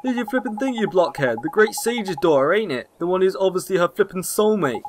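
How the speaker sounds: lightly voiced scolding fairy, lively pitch; exasperated little fairy sidekick; cheeky fairy companion.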